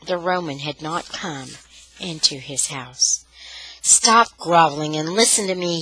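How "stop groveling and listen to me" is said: cruel. Acted. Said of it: "he said cruelly".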